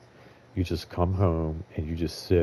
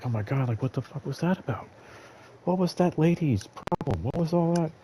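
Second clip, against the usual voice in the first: exasperated venting; 10 semitones higher than usual. Retold or imitated. Venting alone after a rough shift.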